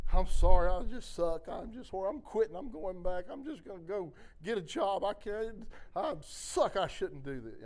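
imitating a crying, whining prayer. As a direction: whine it out like a tearful plea, half acted. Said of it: "I'm just whining. I'm crying".

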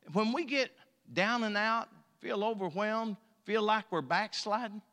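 ordinary delivery

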